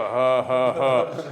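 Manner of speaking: put-on slow, deliberate old-dad chuckle; imitated old man's laugh. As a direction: imitate an elderly father's spaced-out laugh. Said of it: "his laugh when he got older was like".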